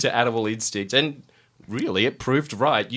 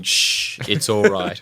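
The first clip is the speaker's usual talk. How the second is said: romantic shushing; 2 semitones lower, much slower than usual. Acted. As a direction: shush them like a lover, playfully. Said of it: "putting your fingers on someone's lips and saying".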